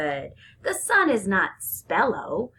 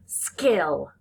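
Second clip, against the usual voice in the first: whispered word; 3 semitones lower than usual. Shown as a demonstration.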